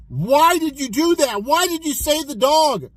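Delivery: acted-out incredulous demand; incredulous questioning. Fishermen ask him why he saved it, mildly incredulous. Fishermen confront man who jumped in.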